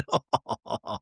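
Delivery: mock chuckle. Dad joking about Christmas stockings, soft chuckle. Laughs at own dad joke.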